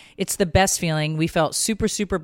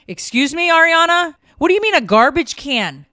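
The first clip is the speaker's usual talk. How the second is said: incredulous mom; 8 semitones higher, 7 dB louder than usual. Retold or imitated. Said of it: "mother confronting daughter".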